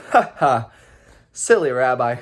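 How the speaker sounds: loud mocking laugh, teasing; mocking giant. Giant mocks the rabbi before kicking him, loud.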